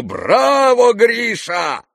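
high, loud cheer; shouting. Retold or imitated. The general re-enacts cheering his friend, high and loud. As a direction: bellow a bravo across the table. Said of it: "Я кричу".

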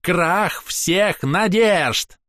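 milk each word dramatically; theatrical despair. Acted. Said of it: "картинно раскидывая руки".

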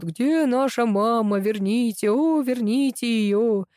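slow, drawn-out mock lament; moaning. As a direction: wail it like a weepy pup. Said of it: "вытирают лапами горючие слёзы и стонут".

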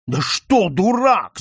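loud shout, pitch up; shouting at son. Acted. Count shouting at his son, loud angry shout. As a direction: bellow it across the whole house. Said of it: "закричал чуть ли не на весь дом".

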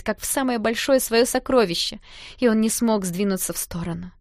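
usual speaking voice

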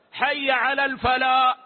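الفلاح ending on a long open alif, the final ha left out; dropped ha. Shown as a demonstration. Teacher demonstrating the muezzin dropping the final ha. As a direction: swallow the ha of الفلاح. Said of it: "يملأ فمه بالألف ويقف".

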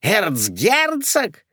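high slow questioning; puzzled echo. Acted. Two old ladies echo in surprise, high and slow. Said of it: "хором повторили".

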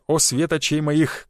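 slow, sugary drawn-out «свет очей моих»; sly flirting. Acted. Vitalik flirting with the conductor, slow sly compliment. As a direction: lay the charm on thick with «о». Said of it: "хитро подмигнул".

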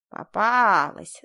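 медленно, громко, скрипучим голосом химеры; злорадно протяни, как скрипучая нечисть; скрипучее злорадство. A narrator's reading. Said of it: "злорадствовала она скрипучим голосом". (химера во сне злорадно хватает героиню, скрипуче)

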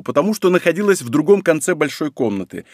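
plain reading voice

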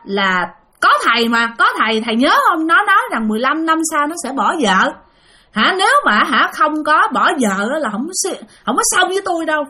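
a hint of high pleading ghost; possessed wife. Ghost wife insisting to the exorcist, lightly voiced. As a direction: press the monk to remember, insistent.

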